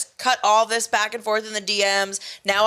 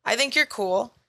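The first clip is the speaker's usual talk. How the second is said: chill composed. Retold or imitated. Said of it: "composed energy that's just chill".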